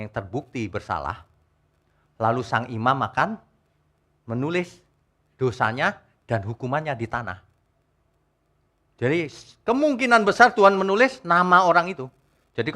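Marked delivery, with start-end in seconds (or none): none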